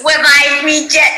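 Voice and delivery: "Revive" said with W for R, "wevive"; Tweety. Retold or imitated. Host echoes the guest's Tweety, "Revive" turned to "wevive". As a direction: say "Revive me" as baby talk, "wevive me". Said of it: "the W's are just amazing".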